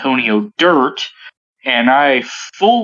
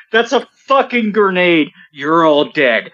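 higher-pitched mock yell of the instructor; retold yell; 4 semitones higher than usual. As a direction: call it out like a sergeant, half-playing. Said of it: "Spradley yells out".

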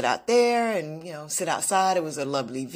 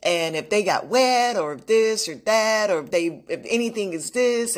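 retold yelling; 3 semitones higher than usual. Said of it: "she was yelling at the gentleman".

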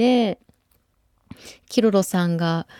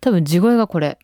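chest voice; 3 dB louder than usual. Shown as a demonstration.

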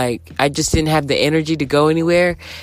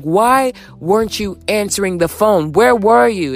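raised, higher-pitched scolding; scolding the boyfriend who never answered, raised and higher; retold angry yelling; 5 semitones higher than usual. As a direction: let him have it, voice up high. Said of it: "screaming, angry".

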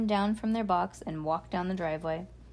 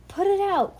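high, loud urgent cry; 12 semitones higher, 7 dB louder than usual. A narrator's reading. Ruby wants the fire out, high urgent cry. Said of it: "cried Ruby".

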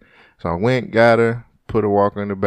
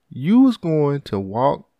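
retold anger; 2 semitones higher, slower than usual. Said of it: "I was like".

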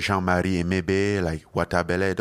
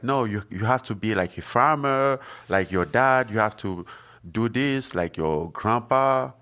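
insistent relatives; 4 semitones higher than usual. Retold or imitated. Family telling the boy to farm like dad, insistent. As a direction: pitch lifted, stretching the last words. Voicing family laying down his future.

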